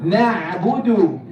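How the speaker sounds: "نعبد" with the throat ayn sounded; clear ayn. Shown as a demonstration. Teacher repeating for students, "نعبد" with clear ayn. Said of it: "we want ayn".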